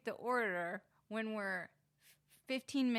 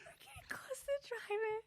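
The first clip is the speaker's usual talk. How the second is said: laughing; 11 semitones higher, 10 dB quieter than usual. Real, not acted. Laughing so hard it sounds like crying.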